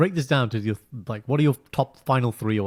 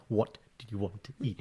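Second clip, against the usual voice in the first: quiet, gentle ask, rising at the end; husband showing his patient question to his wife, soft; 11 dB quieter than usual. Retold or imitated. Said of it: "This is my".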